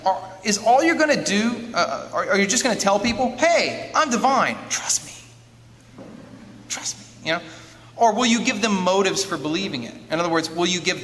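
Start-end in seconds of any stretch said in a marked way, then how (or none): 3.4-5.1 higher, louder casual pitch to the crowd; hammed-up "hey, believe me" claim; mock divine claim. Acting out someone pretending to be God. 6.7-7.3 soft, voiceless aside; playfully whispered reassurance; hushed mock assurance. Repeats the pretend claim, hushed.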